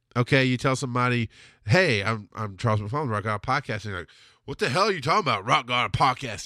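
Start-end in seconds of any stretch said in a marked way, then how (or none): 4.5-6.5 put-on hillbilly-style redneck country accent. Acting out someone who doubts the podcast, in a redneck voice. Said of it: "I always go with a redneck voice".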